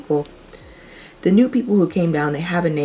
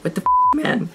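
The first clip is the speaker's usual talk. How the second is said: mock shock. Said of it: "And I was like".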